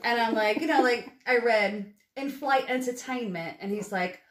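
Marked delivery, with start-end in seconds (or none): 2.2-3.6 reading out in a practised British accent. Shown as a demonstration. Actress reads a sample for a British seatmate, British accent. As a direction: put on a careful British accent. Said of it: "can you help me with my accent".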